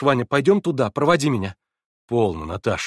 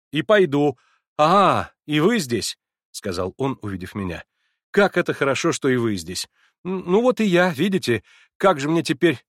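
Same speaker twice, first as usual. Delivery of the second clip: a touch higher and louder, flustered; lightly voiced eager young man; 5 semitones higher, 5 dB louder than usual. A narrator's reading. Alyosha greeting the narrator at the door, lightly flustered. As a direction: bluster a little, unsure of welcome.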